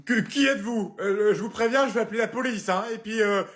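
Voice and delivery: plus aigu, affolé; panique. Acted. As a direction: menace l'intrus en paniquant. Mère terrorisée menace l'intrus. (la mère affolée menace l'intrus)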